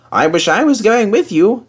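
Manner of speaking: high, wistful longing. A narrator's reading. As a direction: wish you could come too. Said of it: "said James".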